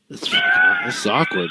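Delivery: mock awkward. Real, not acted. Awkward moment alone, joking.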